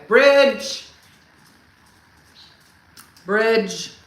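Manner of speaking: loud one-word shout, pointing; imitating a husband's excited bridge yell; mock bridge shout. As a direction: bark it like an eager guide. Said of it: "Never complete sentences".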